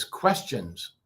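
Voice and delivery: low falling thoughtful tone; thinking voice. Shown as a demonstration. Teacher demos a musing, thinking voice. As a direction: mull it over, tune sinking. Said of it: "just thinking voice".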